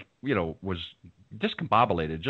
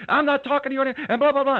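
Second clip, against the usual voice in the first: mock angry retort; 5 dB louder than usual. Angry guest retold in hallway.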